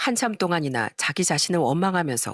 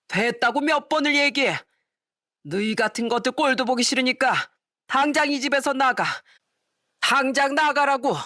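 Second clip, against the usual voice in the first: angry father ordering out; 7 semitones higher than usual. Acted. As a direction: throw them out of the house. Father throws them out.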